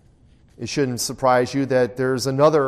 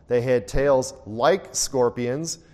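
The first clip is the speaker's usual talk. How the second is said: like drawn out slow with a rising lift; stress on like; slower than usual. Shown as a demonstration. Teacher stresses like for the class, slow rising emphasis. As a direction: lean on the word like and let it rise. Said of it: "I emphasize the word there".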